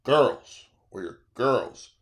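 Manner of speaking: lightly voiced old lady, dropping low and slow; slow, mock-insistent lady's correction; elderly ladies correcting. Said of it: "They go".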